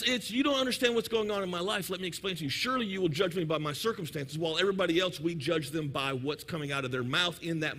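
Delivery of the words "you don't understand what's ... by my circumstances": softer, dropping mock plea; self-justifying plea. Person excusing own behaviour, quiet mock-earnest plea. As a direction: reason softly in your own defense. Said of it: "For us".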